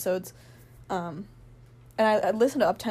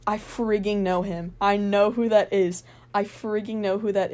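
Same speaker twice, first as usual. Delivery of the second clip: excited recognition; 4 dB louder than usual. Retold or imitated. Recognizing a K-pop star.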